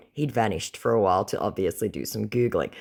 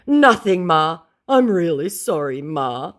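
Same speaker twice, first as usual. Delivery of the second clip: high, loud whiny voice; pleading scammer; 7 semitones higher, 7 dB louder, slower than usual. Retold or imitated. Scammer grovelling to her, high and whiny.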